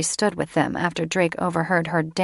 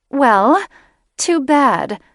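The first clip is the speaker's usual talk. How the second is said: sharp, much higher and louder comeback; indignant retort; 7 semitones higher, 7 dB louder, much slower than usual. Acted. Catherine defying Drake and his brothers, indignant and loud. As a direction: snap it back at him, affronted.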